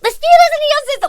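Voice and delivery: high, loud, fast patronizing scold; finger-pointing scold. Retold or imitated. Retelling coworker to customer, high finger-pointing scold. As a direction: jab every word like a pointed finger. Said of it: "the whole finger pointing thing".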